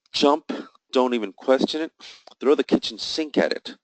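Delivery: fired-up trading coach; excited urging. Acted. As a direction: urge them to go all in with excitement. Candle says go long, urging.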